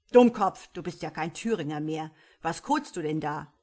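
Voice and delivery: loud mock insult then chuckling; lightly voiced smirking devil in Thuringian; amused old devil. A narrator's reading. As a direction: tease the sprite. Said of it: "schmunzelte der Alte".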